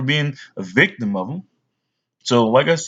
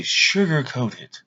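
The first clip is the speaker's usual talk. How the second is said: very slow, drawn-out mock saying; mocking phrase; 4 dB quieter, much slower than usual. Someone advising to soften bad news, slow mock. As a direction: stretch the word out mockingly. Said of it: "and they say".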